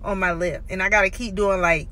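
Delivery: lips catching on brackets; careful lip movement; talking with braces. Real, not acted. Seen 1: Metal brackets visible on teeth in many frames while talking.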